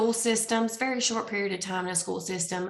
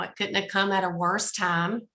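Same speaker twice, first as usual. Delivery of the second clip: raspy voice. Real, not acted. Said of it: "I'm also have a very raspy voice right now".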